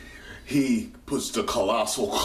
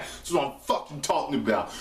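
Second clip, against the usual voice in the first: excited cheer; 5 semitones higher than usual. Real, not acted. Excited about Sid.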